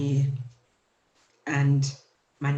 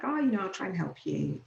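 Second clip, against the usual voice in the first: lightly imitated cheery helper, higher pitched; jovial operator; 5 semitones higher, 3 dB quieter than usual. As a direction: retell a friendly call handler in a lifted voice. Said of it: "the woman was quite jovial".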